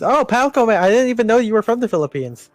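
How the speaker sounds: bad Filipino accent, pitched high; hammed-up Filipino accent. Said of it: "a horrible Filipino accent for me".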